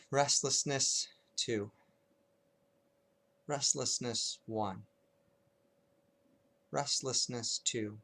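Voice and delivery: unhurried noting with long silences between phrases; lightly hushed, measured meditation guiding; guided meditation. Shown as a demonstration. Teacher leading students in zero-to-five noting, calm guided meditation.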